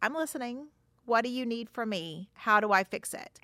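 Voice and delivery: gently acted willingness to listen; attentive, receptive. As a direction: offer help, open and unhurried. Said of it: "your face and your body should be".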